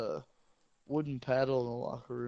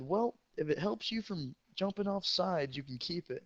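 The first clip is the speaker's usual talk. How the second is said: dry coach verdict; 5 semitones higher than usual. Retold or imitated. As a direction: grant permission grudgingly. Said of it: "and he said".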